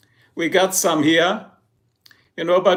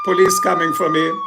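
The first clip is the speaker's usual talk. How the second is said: high unvoiced squeaky mock alarm; mock squeal; 3 dB louder than usual. Streamer squeaks about police coming for him. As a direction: squeak it out in pretend fright.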